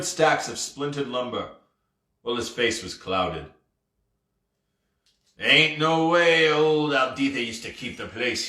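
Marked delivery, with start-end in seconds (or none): 5.4-8.5 lightly voiced pirate grumble; a hint of a gruff old sea captain; grumbling pirate. Ghost pirate complains about his ruined tavern, lightly grumbling. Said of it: "he grumbled".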